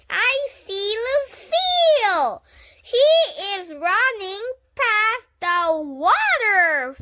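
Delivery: put-on high, loud excited child shouting. A narrator's reading. Girl calling to Grace that she spots Lucille, loud and high. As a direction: yell it out to your friend across the playground.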